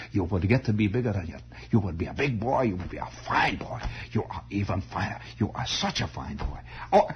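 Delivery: a lightly voiced old German uncle, breathy and fond; fond old relative with a faint German accent; old uncle, vague German accent. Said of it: "they all had this vague German accent".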